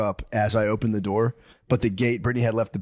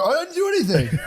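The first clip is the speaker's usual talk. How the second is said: mock innocent protest. Acted innocent reply in quarrel.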